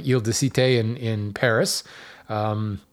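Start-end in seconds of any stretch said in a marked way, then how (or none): 0.1-0.8 French pronunciation slipped into English talk; horrible French accent. Real, not acted. Host naming the island in Paris, amateur French accent. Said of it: "Switched into my horrible French accent".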